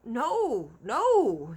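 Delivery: a scared giant says no; BFG denying. A narrator's reading. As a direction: protest quickly. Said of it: "said the B F G".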